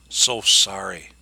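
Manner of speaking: slow, cold mock apology; mock sorry. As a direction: drag it out with fake pity. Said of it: "And he says".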